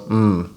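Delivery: low closed-mouth hum of approval; a quiet appreciative mm; soft hum. Shown as a demonstration. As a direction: demo a gentle hum of agreement. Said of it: "you can just go".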